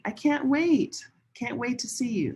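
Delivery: a lift of eagerness on "I can't wait"; excited. Shown as a demonstration. Teacher showing students an excited "I can't wait". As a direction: sound eager to see someone. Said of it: "We often say".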